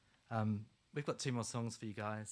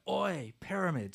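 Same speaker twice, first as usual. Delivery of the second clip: mock shout; 5 semitones higher, 3 dB louder than usual. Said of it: "like shouting out things like".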